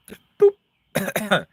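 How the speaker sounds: high squeak then cough; just swallowed a bug. Real, not acted. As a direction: choke on the words. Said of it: "Like a fruit fly or something".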